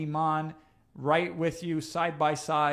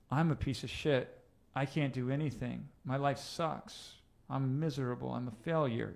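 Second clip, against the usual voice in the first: harsh self-talk; 5 dB quieter than usual. Shown as a demonstration. Coach showing harsh inner voice, defeated and soft. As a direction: mutter it like you believe it. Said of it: "Change the tonality in which you speak to yourself".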